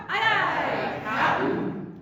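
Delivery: "cap'n" with a swallowed p into n, high and loud; hammed-up sailor's "Aye, aye, cap'n"; pirate aye aye cap'n. Shown as a demonstration. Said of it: "Try it".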